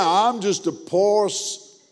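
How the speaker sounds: slow mimicked reply, cut off; slow mock stock reply; imitating churchgoer. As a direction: drag out the mimicked line, then break off. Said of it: "in the middle of him saying".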